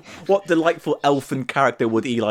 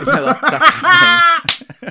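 high squealing laugh through words; 11 dB louder, much slower than usual. Real, not acted. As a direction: crack up mid-sentence. Laughing at the surname joke.

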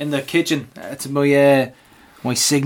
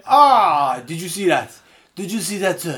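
gushing co-commentator; 3 semitones higher, slower than usual. Retold or imitated. Imitating Joey on co-commentary, awestruck. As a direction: mimic a commentator swooning over a touch. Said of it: "All I heard was".

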